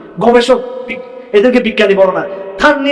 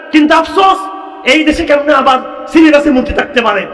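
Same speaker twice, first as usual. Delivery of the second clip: lamenting cry; 4 semitones higher than usual. Real, not acted. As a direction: cry out the regret to the whole crowd. Preacher laments to the crowd.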